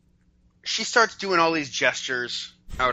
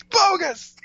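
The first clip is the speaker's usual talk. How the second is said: high burst through shut teeth; clenched teeth; 4 dB louder than usual. Acted. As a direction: blurt it with jaw locked. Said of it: "the clenched teeth, the Sid".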